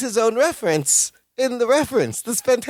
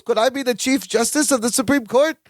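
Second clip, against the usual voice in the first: higher-pitched, hopeful imitation; naive question; 6 semitones higher than usual. Balki asking Larry about new jobs, lightly imitated high voice. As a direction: lightly imitate a wide-eyed dreamer asking.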